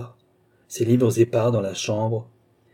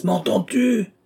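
much higher, strained cry; yelling; 11 semitones higher, 4 dB louder, slower than usual. A narrator's reading. Ignored old man repeats to silent Balsamo, yelling higher. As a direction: cry it out to someone who ignores you. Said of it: "hurlait Altotas".

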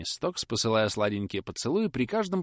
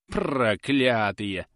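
curse; 5 dB louder, much slower than usual. Acted.

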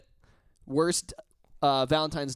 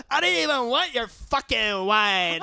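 mock angry; 6 semitones higher, 3 dB louder, slower than usual. Drunk date throwing the wine.

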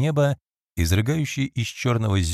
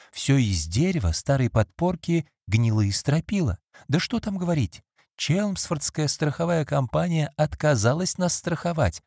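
lightly voiced anxious maid, higher; a hint of a worried servant complaining; Phoebe; 6 semitones higher than usual. Phoebe tells her mistress of her drunk husband, mildly anxious.

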